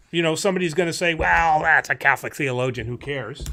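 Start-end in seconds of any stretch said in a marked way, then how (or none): 1.1-3.4 imitated shrug-off, dropping lower at the end; mock dismissive. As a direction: brush it off like a sceptical objector. Acted objector dismissing the source.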